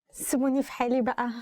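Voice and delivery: quick fed-up plea; acted exasperation. Teacher acting out asking a group to leave her alone, fed up. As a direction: brush them off, mildly exasperated.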